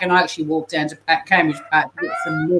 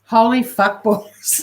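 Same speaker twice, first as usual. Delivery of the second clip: drawn-out, hammed-up gasp of delight; excited exclamation; 3 semitones higher, slower than usual. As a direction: play up the shock like the commenter. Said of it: "and she says".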